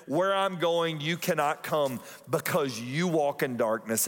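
preacher reading the gospel aloud; scripture reading. Acted. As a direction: give the words of Jesus weight.

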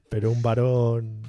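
varón drawn out slowly; slow stress on varón. Shown as a demonstration. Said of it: "la palabra varón me suena así muy rara".

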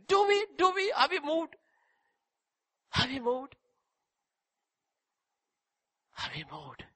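fading questions. Acted.

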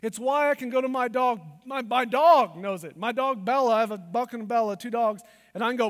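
ordinary delivery

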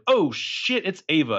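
high-pitched startled exclamation; mock alarm. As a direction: blurt it out as if caught. Acting alarm as door opens.

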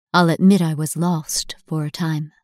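usual speaking voice

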